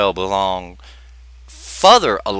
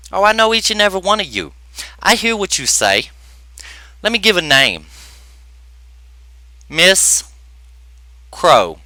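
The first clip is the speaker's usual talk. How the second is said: high, loud diva voice telling her off; hammed-up diva, much higher and louder; sassy diva clapback; 7 semitones higher, 4 dB louder than usual. Holds a high, heated diva voice.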